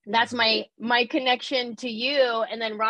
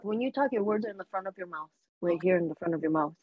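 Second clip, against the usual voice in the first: lightly imitated Latina accent, words in the front of the mouth; a hint of Rosalind's Latina accent; 4 semitones lower, 4 dB quieter than usual. Shown as a demonstration. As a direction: push the words forward like Rosalind. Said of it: "all of your accent words would come out like this".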